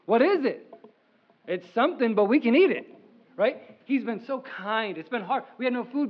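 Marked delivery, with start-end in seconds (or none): 0.0-2.9 Israelites asking. Retold or imitated. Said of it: "They said".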